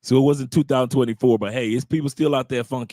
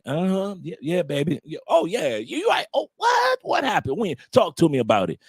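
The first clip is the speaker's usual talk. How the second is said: fake agreeing. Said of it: "I was just agreeing to everything".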